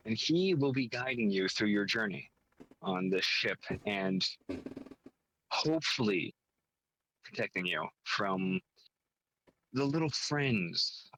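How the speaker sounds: measured scene-setting with deliberate pauses; game story pitch. Acted. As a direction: lay out the premise piece by piece, lifting key phrases.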